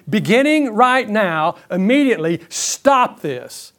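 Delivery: urgent, measured insistence; firm, deliberate order; serious command. Acted. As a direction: stress each command, slow and serious. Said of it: "This is serious".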